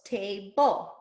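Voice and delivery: TABLE drawn out as ta... ble; separated syllables. Shown as a demonstration. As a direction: say TABLE in two distinct beats. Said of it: "one of these syllables".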